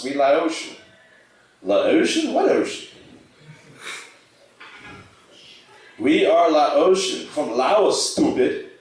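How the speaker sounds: lightly voiced cartoon neighbors trading lines; Hank and Khan scene. Comedian reading Hank Hill meeting Khan, lightly voiced. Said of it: "Hank Hill, King of the Hill. First meets Khan".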